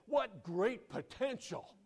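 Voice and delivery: high, loud, drawn-out elation; excited. Acted. Second salesman seeing great potential, loudly excited. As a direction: play a thrilled salesman, loud and slow. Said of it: "he was excited and he said".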